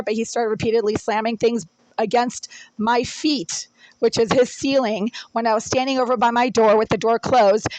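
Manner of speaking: building from firm to furious; rising anger. Real, not acted. Angry complaint on landlord's voicemail.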